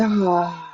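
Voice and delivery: falling sigh on "ah"; voiced out-breath. Shown as a demonstration. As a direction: let the breath go with sound. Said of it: "let it out with a sound".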